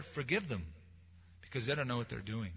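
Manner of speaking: hushed, gentle plea of a dying man; soft tender prayer. Acted. Preacher voicing Jesus on the cross, soft and tender. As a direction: pray it quietly, almost under the breath.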